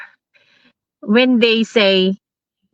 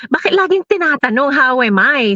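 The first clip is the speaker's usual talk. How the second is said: retold puzzled question; 5 semitones higher than usual. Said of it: "Sabi ko".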